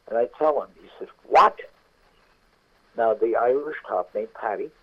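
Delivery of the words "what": surprised. Retold or imitated. Cop hears what happened.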